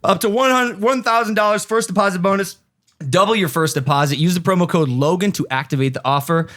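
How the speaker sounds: steady, punchy sponsor pitch; podcast ad read. Acted. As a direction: sell it like a sports betting ad. Sponsor ad resumes.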